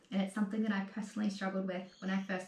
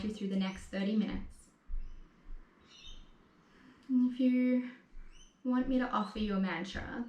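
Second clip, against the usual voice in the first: guided meditation. Acted. Setting an intention, mantra.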